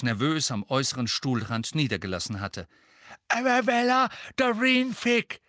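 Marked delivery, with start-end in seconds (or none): 3.3-5.4 lightly voiced shaky old lady; quavering voice. A narrator's reading. Misses Figg nervously giving her name, quavering. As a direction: let the voice tremble a little. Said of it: "mit ihrer zittrigen Stimme".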